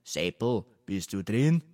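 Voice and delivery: sweetly coaxing question; liebliche Stimme. A narrator's reading. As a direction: ask as sweetly as can be. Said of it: "fragten mit lieblicher Stimme". (lieblich säuselnde Frage)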